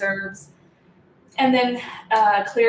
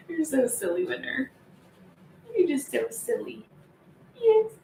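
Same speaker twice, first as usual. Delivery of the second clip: softer, higher teasing coo; 4 semitones higher, 3 dB quieter than usual. Real, not acted. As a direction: tease the dog sweetly. Cooing at dog.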